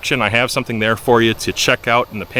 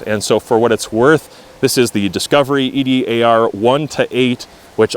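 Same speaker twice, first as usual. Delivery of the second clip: in strong wind. Real, not acted. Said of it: "Sorry for the wind sound, it is quite windy".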